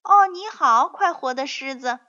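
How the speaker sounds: high, loud sparrow greeting; a quick, high-pitched hello in passing; busy sparrow tossing back a greeting; hurried reply. A narrator's reading. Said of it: "那些麻雀匆忙地回答".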